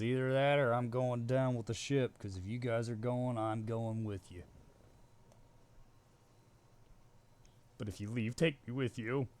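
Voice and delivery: a clumsy cartoon alien impression, half-hearted; playfully mimicking a Looney Tunes Martian; bad Martian accent. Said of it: "Sorry, that was a bad accent".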